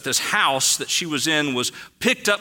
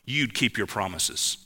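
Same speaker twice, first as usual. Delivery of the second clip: indignant Dorothy; 3 semitones higher than usual. Retold or imitated. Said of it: "And she says this line".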